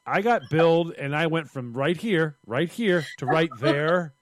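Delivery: loud mock outrage; hammed-up irate customer; indignant complaint. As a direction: argue the bill, affronted. Acting out irate billed customer.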